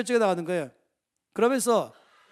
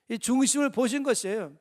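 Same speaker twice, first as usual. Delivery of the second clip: ordinary talk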